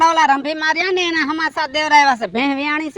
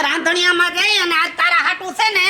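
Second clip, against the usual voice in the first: mock threat shout; 2 semitones higher than usual. Husband threatens wife jokingly.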